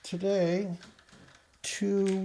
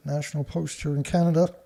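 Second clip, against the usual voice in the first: burping; faster than usual. Real, not acted. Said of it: "Excuse me, I'm burping".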